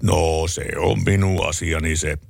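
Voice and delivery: slow, lightly voiced unbothered farmer; calm husband. Husband still calm with his wife, slow and unbothered. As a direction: drawl it like nothing matters. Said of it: "isäntä edelleenkin".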